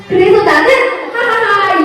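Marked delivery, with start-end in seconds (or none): 1.1-1.8 hearty demonstrated ha-ha-ha; demo laugh. Shown as a demonstration. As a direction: show how he can laugh now. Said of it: "이렇게 웃을 수 있게 됐어요". (이제 웃을 수 있다며 보여주는 웃음)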